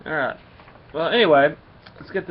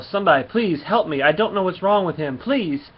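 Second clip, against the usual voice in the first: raised, pleading call for help, a bit louder; mock yell for help; 4 semitones higher, 4 dB louder than usual. Woman yelling in the hospital for someone to help her boy, mock yell. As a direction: call out for help like a frantic mother. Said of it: "starts yelling in the hospital".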